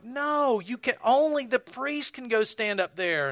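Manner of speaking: high, indignant mock Scottish refusal; mean Scottish accent. Scottish woman refuses a tourist's request, mildly mean mock accent. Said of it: "really mean William Wallace-sounding Scottish accent".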